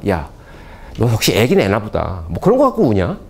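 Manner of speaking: 우는 아이를 가볍게 놀리는 말투; 느릿하게 비꼬는 아빠처럼; 조롱하는 아빠 흉내. Acted. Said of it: "조롱하는 거죠". (우는 애를 살짝 비웃듯이)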